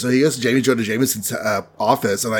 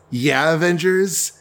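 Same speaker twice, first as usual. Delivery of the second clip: slow, higher questioning reply; drawn-out prompting; 4 semitones higher, slower than usual. Retold or imitated. Daredevil waits for the Avengers' question, drawn-out prompting. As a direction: stretch it out, waiting for the point.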